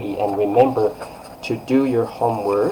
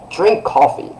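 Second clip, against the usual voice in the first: higher-pitched firm command; strong order; 7 semitones higher than usual. Shown as a demonstration. Teacher giving someone an order, strong tone. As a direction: order it like you mean it. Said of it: "It's like that".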